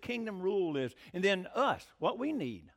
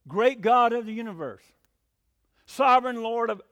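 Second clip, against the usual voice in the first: louder, grand, high-flown prayer address; lofty prayer voice; 3 semitones higher, 9 dB louder than usual. Retold or imitated. Preacher mocking showy prayers to his congregation, grand intoning.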